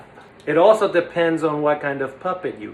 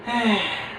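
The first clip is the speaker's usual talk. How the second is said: soft, higher sigh; 5 semitones higher, 4 dB quieter than usual. Acted. Puppeteer acting puppet looking at caged puppies, light sigh.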